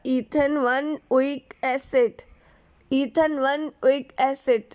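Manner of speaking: Ethane one weak acid said slowly, part by part; slow dictation. Real, not acted. Teacher giving students the acid's name, slow dictation.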